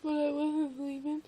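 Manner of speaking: loud, high-pitched insistence; worked-up explaining. Real, not acted. Explaining the vision to a listener, loud and worked-up. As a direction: explain it loudly, overwrought.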